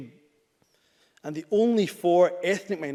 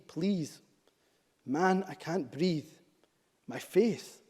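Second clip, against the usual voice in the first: reading last words. Retold or imitated. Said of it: "Here are George Floyd's last words".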